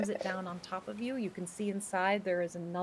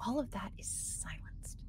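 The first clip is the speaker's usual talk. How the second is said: hushed; 3 semitones higher, 11 dB quieter than usual. A narrator's reading. Game master as outside sounds vanish, hushed. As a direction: drop to a soft, breath-only hush.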